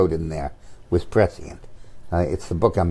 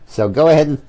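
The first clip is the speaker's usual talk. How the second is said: mock invitation, loud and higher; sarcastic; 6 semitones higher, 4 dB louder than usual. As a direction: egg them on with scorn. Sarcastic dare to congressmen.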